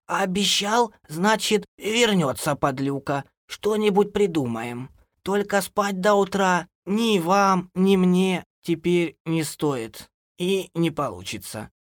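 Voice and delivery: put-on high, slow old woman's voice; resolute granny. A narrator's reading. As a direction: warn them slowly, high-pitched. (бабушка наставляет, высоко и медленно)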